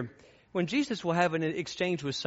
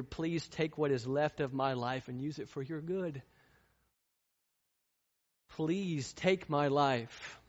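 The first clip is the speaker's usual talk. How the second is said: hushed prayerful pleading. Acted.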